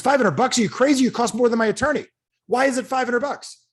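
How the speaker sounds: high, loud indignant shock; outraged disbelief. Retold or imitated. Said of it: "He goes".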